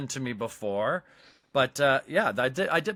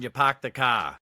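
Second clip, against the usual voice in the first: put-on Boston accent. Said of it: "in Boston".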